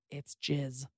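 near-silent mouthed words. Retold or imitated. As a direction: mouth it without voice.

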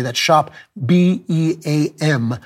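lost voice, slow and spelled out; hoarse voice. Real, not acted. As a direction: rasp through a spent voice. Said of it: "My voice is gone".

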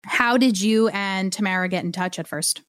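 usual speaking voice

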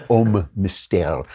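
Homme Mystère said slowly, in a deliberately bad French accent. Shown as a demonstration. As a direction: drag out Homme Mystère like a hammed-up French speaker. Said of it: "that's my bad French accent".

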